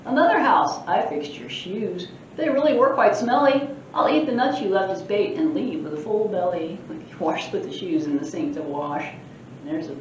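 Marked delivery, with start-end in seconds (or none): 0.1-6.8 a lightly voiced mischievous leprechaun boasting; cheeky leprechaun. Librarian reading the leprechaun's boasts aloud, cheeky. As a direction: tease the reader like a sprite.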